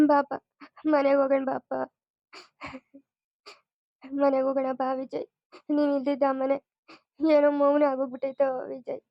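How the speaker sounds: sniffling, broken into short pleas; tearful pleading. Acted. Parent begs Vijay to come back home, tearful. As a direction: beg through tears, pausing between phrases. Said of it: "ನೀವು ಹತ್ತು ಅಖಿಲಮ್ಮನ್ಗೂನು ಅಳೋ ಹಂಗ್".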